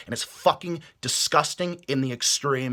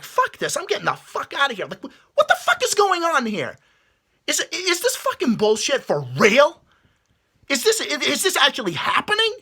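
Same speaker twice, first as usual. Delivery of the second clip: mock panic; 10 semitones higher than usual. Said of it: "That's what I would say to myself".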